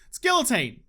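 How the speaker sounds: guillotine in an Australian twang, L's sounded; defiantly Australian "guillotine" with a spoken L. Shown as a demonstration. Gamer answering critics of his guillotine, sweet Australian twang. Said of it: "say it with my sweet Australian twang".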